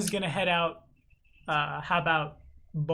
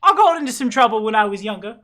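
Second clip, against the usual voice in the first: confiding tavern owner; 6 semitones higher, 10 dB louder, faster than usual. Acted. Game master plays tavern owner.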